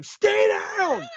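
high-pitched shout at a downed opponent; in-character scream. Acted. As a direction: scream it as the wrestler. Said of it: "I scream at him".

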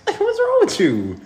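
high, incredulous, laughing through it; exasperated disbelief. Retold or imitated. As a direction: act baffled and fed up. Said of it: "but I'm gonna be like".

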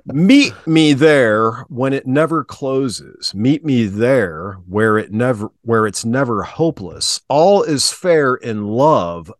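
slow, drawn-out dramatic lyric reading; spoken word. Pretend. Podcast host reads song lyrics for the co-host as mock spoken word. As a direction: recite it like slam poetry, lingering on each phrase. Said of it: "this spoken word segment".

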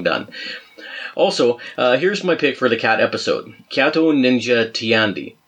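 a mild put-on Canadian accent; hammed-up Canadian accent, cheesy dad style. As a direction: read the letter like a Canadian, a touch hammed. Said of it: "I'm gonna see if I can do my Canadian accent here".

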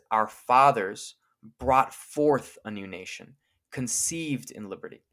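slow, measured oration with a weighty start; slow stately recitation of Lincoln's opening; slow oratory. Shown as a demonstration. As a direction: declaim it like a solemn address from a podium.

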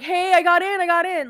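high, loud gleeful announcement; mock bragging. Denying having bragged to him about getting in, mock bragging.

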